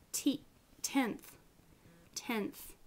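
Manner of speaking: tenth with the n moved forward onto the teeth; dental n in tenth. Shown as a demonstration. Teacher demonstrating sound change to phonetics class, slow. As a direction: stretch out tenth to show the dental n. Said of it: "Alveolars to dentals".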